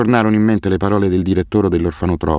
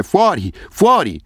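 very high, slow agonized wail; screaming in pain; 12 semitones higher, slower than usual. A narrator's reading. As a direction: drag out a desperate shriek. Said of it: "Asef continuava a gridare".

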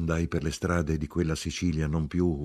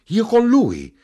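very high, loud cry of disbelief; shrieked, stunned question; distraught shout; 12 dB louder, slower than usual. A narrator's reading. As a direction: cry out, completely overwhelmed. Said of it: "gridò stravolta mia madre".

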